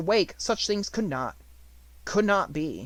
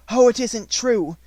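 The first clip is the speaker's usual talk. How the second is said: high, loud and slow cry of disbelief; excited cry; 8 semitones higher, 9 dB louder than usual. Acted. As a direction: cry out in overwhelmed wonder. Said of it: "cried out again".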